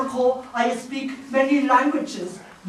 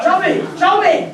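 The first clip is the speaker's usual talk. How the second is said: eager demand; 5 semitones higher than usual. Pretend. Native demanding money demo.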